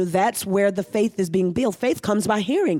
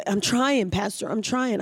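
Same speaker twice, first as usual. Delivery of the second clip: tired plea, trailing softer; weary churchgoer; 3 dB quieter than usual. Retold or imitated. Congregant telling the pastor they are trying, tired and softer. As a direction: sigh it out like a worn-out believer. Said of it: "you'll hear people say it like this".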